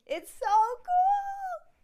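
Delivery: very high, loud, drawn-out squeal; real over-the-top gushing; excited squeal. Real, not acted. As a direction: squeal it slowly with huge excitement. Gushing about their famous house, then apologizes.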